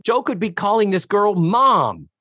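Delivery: imitating Tootie. Host voicing Tootie's opposing viewpoint, high imitated objection. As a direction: argue it high-pitched, landing hard on the last word. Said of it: "And Tootie's like".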